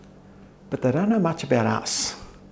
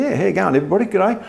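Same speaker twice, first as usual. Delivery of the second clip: exaggerated Aussie accent; 7 semitones higher than usual. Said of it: "Let's just bung it on a bit".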